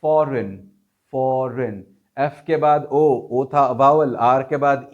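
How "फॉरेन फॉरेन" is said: फॉरेन said fɔren, R between vowels; foreign with R. Shown as a demonstration. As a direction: say फॉरेन keeping the R. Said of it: "इसमें भी आर पढ़ा".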